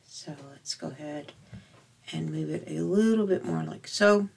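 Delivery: talking around a pin in the mouth. Real, not acted. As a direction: speak with a pin between the lips. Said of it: "I've got a pin in my mouth".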